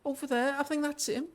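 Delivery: put-on high-pitched Liverpool child; small, high Scouse voice; Liverpool accent. A Scouse child asking a stranger after missing parents, Liverpool accent. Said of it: "She's gonna be from Liverpool".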